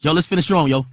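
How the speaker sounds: pep-talking coach. Retold or imitated. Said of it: "Diddy was a fucking coach".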